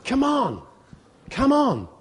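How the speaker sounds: loud, high, pushing the crowd onto the train; hammed-up Holy Spirit bellowing come on; urgent shout. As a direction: herd them in like a station pusher. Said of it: "the Holy Spirit goes".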